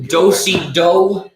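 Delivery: slow, loud calling; square dance caller. Pretend.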